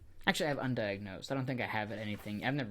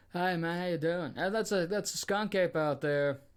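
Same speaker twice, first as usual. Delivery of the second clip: southern accent impression; 5 semitones higher than usual. Joking with a friend about Florida accents, light Southern accent impression. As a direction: play a Southern good old boy in a Southern accent. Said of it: "I'm just going now weird southerner myself".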